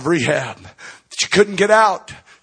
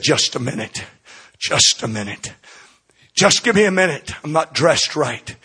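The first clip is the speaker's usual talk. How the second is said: much softer, hushed and tearful; a choked-back plea for a moment; 3 semitones lower, 4 dB quieter than usual. Retold or imitated. Brenda asking her pastor at the door to wait, softly tearful. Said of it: "she sobbed".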